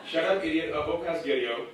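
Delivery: a hint of a small kid, pasghetti with s before g; lightly voiced little kid reciting his three English phrases; fob kid voice. Comedian recalls his childhood English words, mild kid voice. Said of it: "I only knew three words of English".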